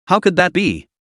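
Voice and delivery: startled, disbelieving question; surprised exclamation. A narrator's reading. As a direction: blurt it out in surprise. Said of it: "Zhuang Yanxin exclaimed".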